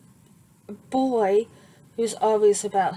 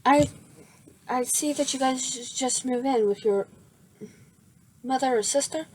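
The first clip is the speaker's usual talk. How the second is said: put-on higher, eager young voice; lightly voiced eager boy; eager Midoriya; 4 semitones higher than usual. Midoriya introducing himself to the neighbour, higher and eager. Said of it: "he goes".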